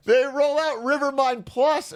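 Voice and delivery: high, slow, drawn-out announcer hype; mock product hype. Streamer to chat, hamming up the upgrade reveal. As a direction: sell the upgrade like a cheesy ad reveal.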